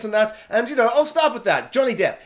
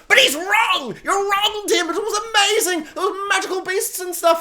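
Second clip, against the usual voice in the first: teasing brother he disagrees with, high and excited; excited protest; 12 semitones higher than usual. Real, not acted. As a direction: call out the brother with a laugh. Mock arguing with his brother.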